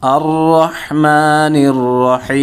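slow recitation, long "maa", very long "hiiim" in রহিম; measured Quran recitation with রহিম stretched out; three-alif stretch at stop. Shown as a demonstration. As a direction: hold the final "hee" of আর রহমানির রহিম before closing on m. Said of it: "ওয়াকফ করলে তিন আলিফ".

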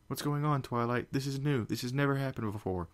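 put-on high, alarmed young voice; frightened. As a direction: cry it out in rising alarm. Spike frightened by knocking.

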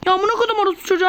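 hızlı, tiz, sinirli küfür savur; öfkeli küfür. Real, not acted. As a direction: oyuna kızıp hızla sövüyor. Oyunda sinirlenip küfrediyor. (oyuna kızıp hızlı hızlı sövüyor)

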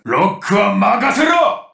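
drawn-out rallying call; confident battle shout. Acted. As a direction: call it out, stretching the words. Battle call in game lines. (気合いを込めて伸ばす掛け声)

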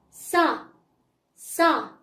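سا as "sa", opened on the "a"; fatha syllable. Shown as a demonstration. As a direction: model سا as one clear syllable "sa". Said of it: "غنقولو لها سا".

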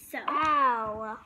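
whispered "so, ow". Real, not acted. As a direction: breathe it under the voice. Whispered after falling.

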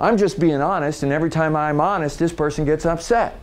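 acted-out affronted honesty; defensive self-justification. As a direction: protest your innocence with some edge. Acts out self-justifying honest person.

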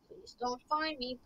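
soft hushed plea; whispering while hiding. Real, not acted. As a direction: beg quietly not to be found. Hiding from the guard.

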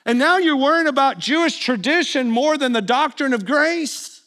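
a touch of bro-to-bro protest; mock exasperated. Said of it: "I wanna go".

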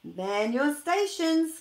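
commanding call to the elves; calling out orders. Acted. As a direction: boom it across the workshop. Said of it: "calls Santa".

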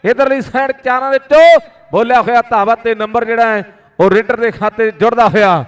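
rapid village kabaddi play-by-play; frantic rural sports commentary. Real, not acted. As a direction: call every raid live to the crowd. Live kabaddi commentary on mic. (ਤੇਜ਼ ਪੇਂਡੂ ਖੇਡ ਕੁਮੈਂਟਰੀ)

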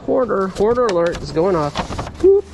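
normal talking voice

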